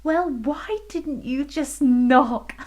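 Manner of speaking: high giggly question; giggling queen. Acted. Queen giggling at the fairy. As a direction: giggle through it. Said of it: "giggled the queen".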